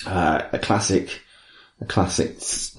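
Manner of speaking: low soft near-whisper; hushed. Real, not acted. Hushed aside.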